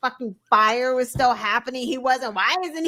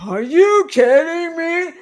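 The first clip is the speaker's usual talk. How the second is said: louder, higher scoffing disbelief; mock outrage; 4 semitones higher, 8 dB louder than usual. Co-host mocking flustered pundits, loud scoffing disbelief. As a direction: blurt it like an indignant pundit.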